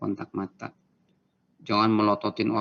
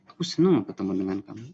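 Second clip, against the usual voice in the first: fast, eager, happy greeting; enthusiastic; faster than usual. Shown as a demonstration. Teacher demoing greeting someone happily, fast and eager. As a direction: sound delighted to see them. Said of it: "Senyum dan tunjukkan semangat".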